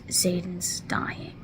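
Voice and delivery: slow, breathless whisper; under her breath. Retold or imitated. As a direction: barely breathe the words out. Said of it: "under her breath".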